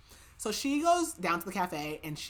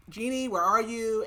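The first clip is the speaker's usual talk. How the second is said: higher, louder mock calling; mild retold call-out; 4 semitones higher, 6 dB louder than usual. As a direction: call out lightly for someone out of sight. Man calls out for hidden Jeannie.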